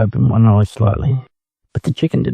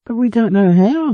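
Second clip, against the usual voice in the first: crying out; 12 semitones higher than usual. Acted. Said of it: "the ducklings cried".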